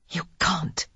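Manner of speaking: breathy seductive whisper. A narrator's reading. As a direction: whisper it close. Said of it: "Lily whispered".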